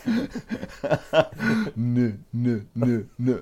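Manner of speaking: repeated "N-" sounds, stuck before the word; acted stutter. Next guy asked where he's from, stuttering on "N-". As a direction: stammer "N-" in separate little bursts. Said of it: "Why are all these guys stuttering".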